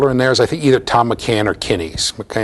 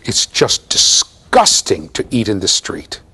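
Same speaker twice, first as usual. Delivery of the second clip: slow, emphatic mock-British reproof; disapproving Briton, stretching out each "disgusting"; British accent; slower than usual. British host reproving his American guest, British accent. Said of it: "in his British accent".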